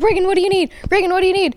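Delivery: mom pleading urgently with her hurt daughter; panicked mom. Retold or imitated. Mom panicking after head injury.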